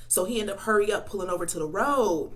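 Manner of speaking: talking while eating; mouth full. Real, not acted. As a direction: talk through a mouthful of food. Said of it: "so hard for me to eat and talk".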